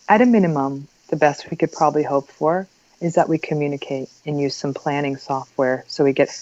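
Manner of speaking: even, measured, soothing tone; calm hostage negotiator. Shown as a demonstration. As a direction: defuse it calmly like a negotiator. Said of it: "it is the hostage negotiator voice".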